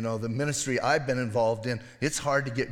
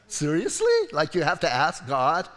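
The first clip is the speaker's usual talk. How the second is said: incredulous; 3 dB louder than usual. Real, not acted. Preacher scoffing at Balaam asking God, incredulous.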